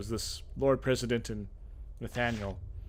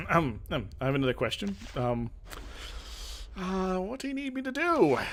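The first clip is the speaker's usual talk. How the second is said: 1 eager question; 7 semitones higher than usual. Acted. Player character asking eagerly.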